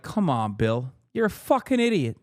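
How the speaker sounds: hammed-up jab at a pompous host; lightly voiced Bill Burr mocking Bill; mock Bill Burr rant. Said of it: "even he's like".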